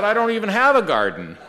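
laughing punchline. Retold or imitated. Preacher telling the Adam joke, laughing. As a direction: deliver the gag while cracking up.

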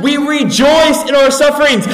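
"We rejoice in our sufferings" repeated high and loud, driven home; emphatic repeat. Real, not acted.

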